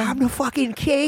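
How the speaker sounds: high, swaggering king; lightly voiced brash medieval king; strutting royal brag; mock king voice. Acting out movie character.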